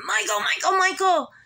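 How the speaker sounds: high-pitched imitation of screaming a name; mock scream, pitch jumping up; retold scream. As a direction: re-enact an urgent warning cry, not at full volume. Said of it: "and I'm screaming".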